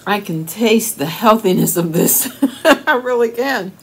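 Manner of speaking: spoon held near lips; slight food in mouth; talking right after eating. Real, not acted. Seen 0: Spoonful taken at -12/-9; talks holding spoon near mouth, smiling.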